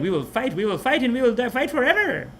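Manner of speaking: rally the troops to fight to the death; defiant Japanese soldiers. Retold or imitated. Mocking the Japanese command's vow to fight forever, high and ringing. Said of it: "They were like".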